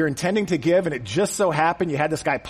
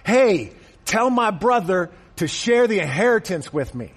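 heckler call; 4 semitones higher, 3 dB louder than usual. Acted. Heckler shouting from front row.

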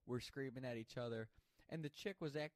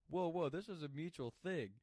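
retold protest; 6 semitones higher than usual. Defending himself in retold quarrel.

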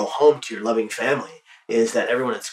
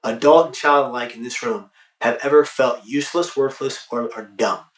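addressing an audience. Retold or imitated. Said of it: "So I'll ask an audience".

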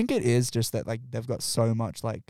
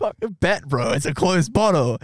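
retold outburst; 5 semitones higher, 6 dB louder than usual. Arguing with cop, retold.

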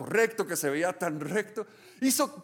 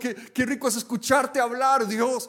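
delighted prayer; 5 semitones higher than usual. Pretend. Believer resting in God's presence, blissful and sing-song. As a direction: savour every word, almost singing.

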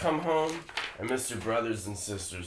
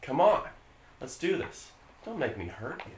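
a quiet, slimy predator; creepy predator voice; 6 dB quieter than usual. Acted. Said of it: "Sam, why don't you be Dan".

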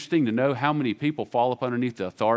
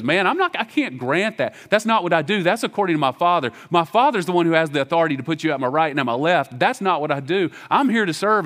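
Jesus voiced; 4 semitones higher, 4 dB louder than usual. Preacher voices Jesus' reply.

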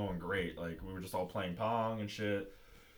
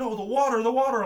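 high, loud panicked imitation; hammed-up alarm, rising on the repeat; mock frantic shout; 14 semitones higher, 11 dB louder than usual. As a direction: yell it like the flustered guard. Imitating frantic guard about spill.

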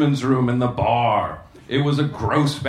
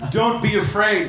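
reassuring; 6 semitones higher than usual. Acted. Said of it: "he assured her".

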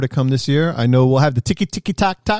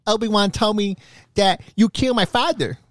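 a lightly put-on high movie-quote voice; movie line voice; 9 semitones higher than usual. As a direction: deliver it like a dramatic film hero, half joking. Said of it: "was that Adam Sandler?".

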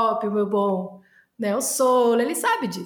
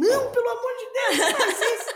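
mock-pleading president, high and laughing; 12 semitones higher than usual. Retelling the hospital president begging her not to, high laughing plea. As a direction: squeal it out pleading through a laugh.

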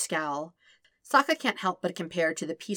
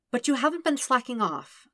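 patient; 7 semitones higher than usual. Acted. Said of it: "Katara reminds him patiently".

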